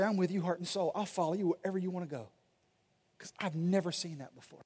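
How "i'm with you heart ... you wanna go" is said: devoted reply. Retold or imitated. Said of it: "They're gonna say".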